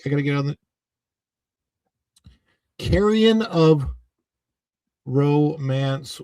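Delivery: ordinary talk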